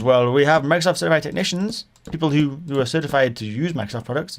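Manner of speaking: lightly mimicked Indian-accented seller. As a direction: explain in a mild mock Indian accent. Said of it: "he definitely had an Indian accent".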